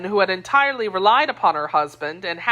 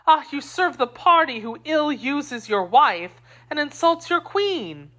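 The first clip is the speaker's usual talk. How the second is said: higher, outraged accusation; the wife rails at her husband for serving the cardinal, higher and slowing; indignant; 8 semitones higher than usual. A narrator's reading. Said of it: "cried she".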